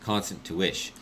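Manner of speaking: short-tempered bickering; irritated squabble. Acted.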